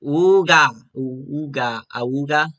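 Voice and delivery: spoken horn honks, first one loudest; drawn-out mock klaxon; imitated horn. A narrator's reading. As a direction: imitate an old comedy horn. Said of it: "with loud horn sound".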